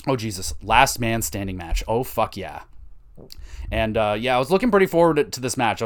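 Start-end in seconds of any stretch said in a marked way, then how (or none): 0.6-1.8 words pushed out on a burp. Real, not acted. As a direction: talk through a burp, slowly. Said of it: "Excuse me, I'm gonna burp".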